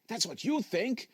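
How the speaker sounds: a disembodied voice creeping down the line; eerie phone voice. Acted. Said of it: "the voice said".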